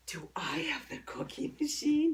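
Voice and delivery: excited build-up. Shown as a demonstration. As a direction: start held back, then burst out on COOKIE MACHINE. Whispered build-up breaks into voice.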